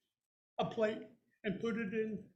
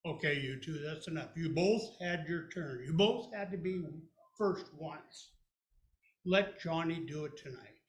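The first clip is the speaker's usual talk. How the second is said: lightly lower, calm dad voice; 3 semitones lower than usual. Retold or imitated. Dad calmly ending the argument. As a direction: settle the kids gently. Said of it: "low voice and calm".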